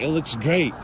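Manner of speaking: mildly gushing, as the pleased boss; ecstatic praise. Retold or imitated. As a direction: imitate her glowing approval. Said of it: "She was, like, ecstatic".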